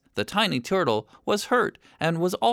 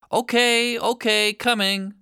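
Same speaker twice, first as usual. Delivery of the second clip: higher, eager okay okay; hurried reply; 7 semitones higher, 3 dB louder than usual. Acted. Mark answering the angry shoal, hurried and eager. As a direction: rush to answer, a bit flustered.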